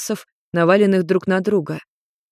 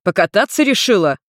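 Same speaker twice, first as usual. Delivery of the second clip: indignant; 2 semitones higher, 3 dB louder than usual. Acted. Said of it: "возмутился Йен".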